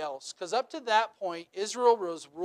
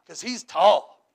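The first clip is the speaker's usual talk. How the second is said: dopey answer; 6 dB louder, slower than usual. Retold or imitated. Mock dialogue, people choosing king.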